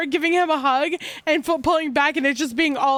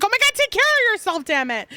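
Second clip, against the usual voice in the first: upset mother hen; 8 semitones higher than usual. Acted. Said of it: "she's like".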